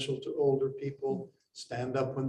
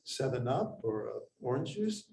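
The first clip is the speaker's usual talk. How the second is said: grandmother's friend; 3 dB louder than usual. Retold or imitated. Grandmother's friend offering David a drink, mock sweet old lady. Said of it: "they'd say".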